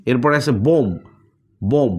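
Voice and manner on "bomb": বোম said "bom", ending on the m with no b; বোম read like "bom"; বোম with silent b. Shown as a demonstration. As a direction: close বোম on the m, no b after it. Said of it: "বিটা silent করে দিয়েছি".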